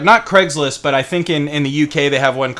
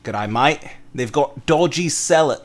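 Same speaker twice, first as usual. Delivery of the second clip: tentative mock Australian; bad Australian accent. Practising dodgy sellers on a mate, clumsy Australian accent. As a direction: have another clumsy go at Australian. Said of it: "I'm bad".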